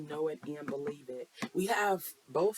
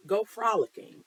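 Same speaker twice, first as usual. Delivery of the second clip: excited; 6 semitones higher, 7 dB louder than usual. Real, not acted. Playful urge to have fun.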